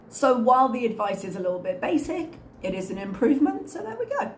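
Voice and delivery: a squeaky, cracking voice today. Real, not acted. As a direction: voice squeaking up on the last words. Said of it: "My voice is so squeaky today".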